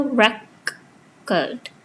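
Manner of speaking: "record" drawn out as REC... ord; first-syllable stress. Shown as a demonstration. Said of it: "Stress falls on the first syllable".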